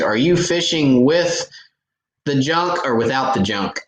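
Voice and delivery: teasing your partner with a loaded question; mock fishing partner question. Tournament partner asking about the junk, in a teasing half-shout. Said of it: "generally the first question we ask".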